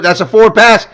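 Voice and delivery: loud, high, indignant call; outraged shout. Real, not acted. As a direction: yell it like the ref missed it. Protesting a forward pass.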